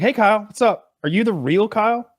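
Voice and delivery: imitating the cheater. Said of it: "he's like".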